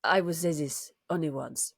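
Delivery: put-on comic sitcom French accent. Quoting a comedy after cohost's request, French accent. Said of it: "can you do a little bit of Francais".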